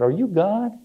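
high, rising question to the heavens; awed question. Retold or imitated. Ice fisherman asking the sky who speaks, high awed question. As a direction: call up in mock wonder, pitched high.

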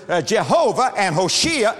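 ordinary talk, nothing marked

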